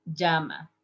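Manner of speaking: llama with a y sound, JA-ma; Spanish llama. Shown as a demonstration. Teacher showing the Spanish llama. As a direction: say llama as "yama". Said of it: "we call llama".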